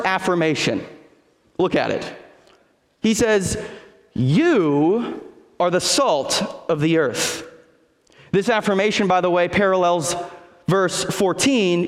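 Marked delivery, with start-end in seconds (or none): 4.1-7.4 YOU stressed, said slowly and deliberately; emphatic you. Shown as a demonstration. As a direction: lean on the word You. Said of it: "in both of those statements is emphatic".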